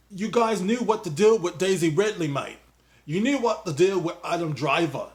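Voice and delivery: loose mock British accent, quoting Boyega; a hint of London 'mate' British accent; put-on British accent. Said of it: "I don't know what accent I'm doing now".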